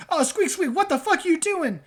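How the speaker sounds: a rat-man jumping out of his skin; startled rat-man. Acted. Rat-man shrieks at the goop, high and startled. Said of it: "He goes".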